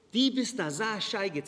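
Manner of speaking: put-on slow Hasidic Yiddish accent; the Hasidic father's Yiddish, slowed and drawn; father scolding the rabbi in Hasidic Yiddish accent. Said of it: "He came from a very Hasidish, uh, community".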